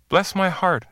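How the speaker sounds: high, delighted exclamation; hearty exclamation. Acted. New arrival greeting his old friend, excited. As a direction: burst out in pretended joy. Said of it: "exclaimed the new arrival".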